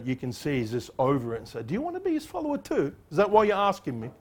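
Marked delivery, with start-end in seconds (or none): 1.6-4.1 sarcastic question. Retold or imitated. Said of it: "I don't know if it's sarcasm".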